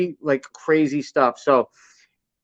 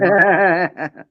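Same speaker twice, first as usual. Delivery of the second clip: hearty laugh. Real, not acted. Laugh after entrance.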